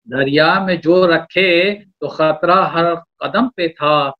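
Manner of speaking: slow measured couplet delivery; poetry recitation. Acted. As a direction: lean into each line of verse.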